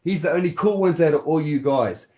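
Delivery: indignant, insistent telling-off; heated scolding. Real, not acted. Guest telling the host to stay in his lane, heated scolding. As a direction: lay into them, pressing each phrase.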